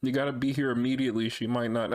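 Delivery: half-improvised urgent dad call; lightly played worried dad. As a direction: pretend to be a dad calling with urgent family news. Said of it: "I can call pretending to be your dad".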